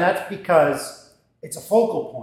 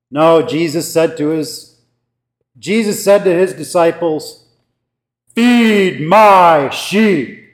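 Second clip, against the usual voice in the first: imitating a guest pastor's hammed-up, very slow "Feed my sheep"; mock overdramatic pulpit reading; over the top preaching; 7 dB louder, slower than usual. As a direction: stretch "Feed my sheep" out loud and grand, mocking the pomp. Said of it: "a little bit much over the top".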